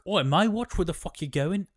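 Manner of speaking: high, loud startled snap; mock-shout at the stranger who bumped him; hammed-up outraged yell; Ulf barking at him. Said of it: "Ulf's like".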